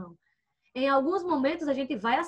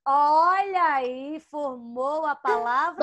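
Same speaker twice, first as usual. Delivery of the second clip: drawn-out teacher prompt; slower than usual. Real, not acted. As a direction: stretch each word out slowly. Leading children to the formed word.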